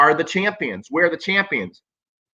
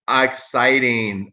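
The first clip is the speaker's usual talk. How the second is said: sarcastic drawl; 4 semitones lower, much slower than usual. Real, not acted. Sarcastic one word verdict.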